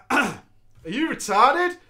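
a hint of an annoyed healer; lightly voiced healer insulting the mages; voicing the healer. Healer scolding the mages, a hint of annoyance. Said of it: "The healer then said".

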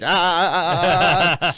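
loud repeated "ah" cries; mock childbirth wails, pushing it out; straining birth-like cries. Comic retelling of a bathroom emergency, mock straining cries. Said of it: "giving birth to this turd".

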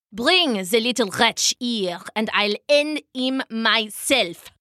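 controlled rage in a put-on king's voice; enraged king. King orders guards to fetch the duck, controlled rage. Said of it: "now he was in a rage".

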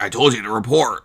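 lightly voiced robotic command; robotic voice changer voice. Man with mask off repeating order, same robotic voice. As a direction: insist in the masked man's odd voice. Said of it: "you were talking like that".

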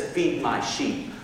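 slow, soft instruction; gentle commission. Retold or imitated. Jesus calling his disciple back into ministry, gently. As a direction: entrust it to him quietly.

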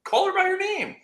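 mock exasperated plea rising in pitch; retold seething. Muted client glaring at lawyer on camera, seething. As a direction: silently scold him, climbing to a high finish. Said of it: "I'm, like, glaring at him".

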